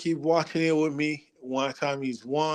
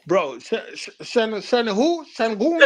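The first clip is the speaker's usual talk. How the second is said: mock disbelief; 9 semitones higher than usual. Real, not acted. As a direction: scoff at the name. Mocking disbelief at name.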